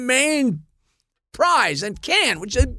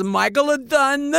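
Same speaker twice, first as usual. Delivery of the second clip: laughing retort; 6 semitones higher than usual. Retold or imitated. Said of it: "she says".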